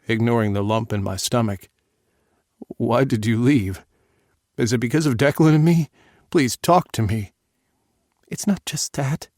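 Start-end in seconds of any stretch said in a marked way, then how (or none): 2.8-7.3 desperate plea. Acted. Father begging daughter to explain. 8.3-9.3 put-on young daughter voice. Daughter crying on call.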